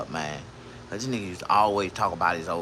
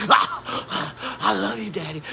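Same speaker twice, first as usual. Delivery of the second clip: very slow, higher, cooing mock girl voice; imitating a girl; 10 semitones higher, much slower than usual. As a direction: coo it like a smitten girlfriend. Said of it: "they be like".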